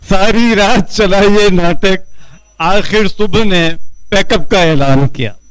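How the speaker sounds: slow, measured Urdu nazm recital; poetry recitation. Acted. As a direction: declaim the verse line by line with pauses. Repeats the closing verse.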